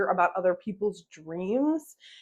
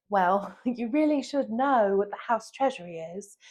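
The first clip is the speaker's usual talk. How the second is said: condescending British woman, imitated; mock British put-down; shaming British accent; 3 dB quieter than usual. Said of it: "shamed me in that moment".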